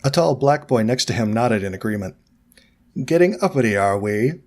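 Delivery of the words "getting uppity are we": smirk through it, Malfoy-style. Acted. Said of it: "Malfoy muttered with a smirk".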